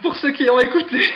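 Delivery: can't hold back the giggles; laughing. Real, not acted. Host teased about the ad, laughing out loud.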